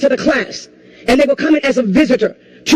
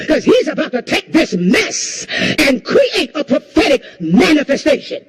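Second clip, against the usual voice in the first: preaching at full force. Acted. Preacher to the congregation about breakthrough, fervent full-force preaching. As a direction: drive the congregation with fervour.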